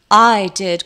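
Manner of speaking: put-on croaking elderly voice; croaky old crone. A narrator's reading. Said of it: "croaked an elderly voice".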